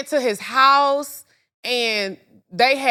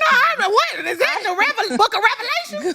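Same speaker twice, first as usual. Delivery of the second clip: high and laughing, playful; 12 semitones higher, 3 dB louder, much faster than usual. Real, not acted. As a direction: giggle through a silly question. Laughing, joking about the Bible.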